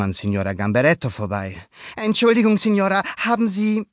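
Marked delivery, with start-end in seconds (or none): 2.0-3.9 put-on high, loud boyish question; boy asking politely. A narrator's reading. Luca asks the neighbor about his fish, high voice. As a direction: ask politely as young Luca.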